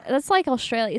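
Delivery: New Zealand attempt sliding into Australian; attempted New Zealand accent. Shown as a demonstration. Co-host fails the accent challenge, accidental Australian accent. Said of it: "I'm going Australian".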